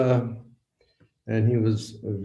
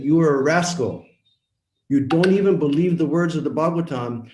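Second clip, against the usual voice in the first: retold shouted accusation, higher and louder; angry rebuke; 5 semitones higher, 4 dB louder than usual. Preacher retelling his second outburst at the lecturer, angry shout. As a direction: lash out at him again in the retelling. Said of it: "cool down, cool down".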